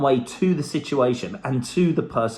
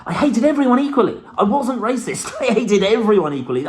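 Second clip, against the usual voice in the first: laughing; 5 semitones higher, 3 dB louder than usual. Real, not acted. Laughing at his own phrase.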